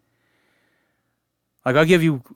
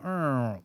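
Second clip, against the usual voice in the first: weak drill whir; 11 dB quieter than usual. Retold or imitated. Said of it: "It would just go".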